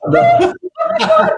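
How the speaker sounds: high, loud horrified "oh my God"; shocked exclamation. Retold or imitated. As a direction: shriek it out in disbelief. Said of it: "I just went".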